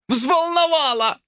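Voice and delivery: high, slow indignant outburst; exploding. A narrator's reading. George exploding at Lucy's question. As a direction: hurl the word back at her. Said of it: "взорвался он".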